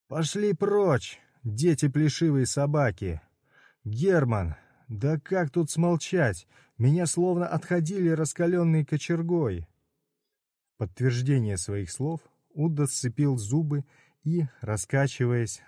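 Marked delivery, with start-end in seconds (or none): 0.1-9.7 high anguished curses; pained cursing. Acted. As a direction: drive them away while burning. Udo cursing natives in pain.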